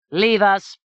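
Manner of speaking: curt royal dismissal. A narrator's reading. King orders the attendants out, loud and curt. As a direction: clear the room with two words.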